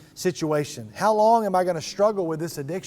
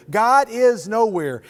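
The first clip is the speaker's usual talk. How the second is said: slow, louder, drawn-out lament; a prophet calling out to an absent God, slow and loud; despairing complaint; 3 semitones higher, 5 dB louder, slower than usual. Acted. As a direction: let God hear the despair in it slowly. Habakkuk camping out, complaining.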